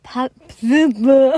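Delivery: PA of Pavillon hit loud, then breaking off into laughter; stress on first syllable. Shown as a demonstration. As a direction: punch "Pa-" hard, as a demonstration. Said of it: "Betonung auf der ersten Silbe".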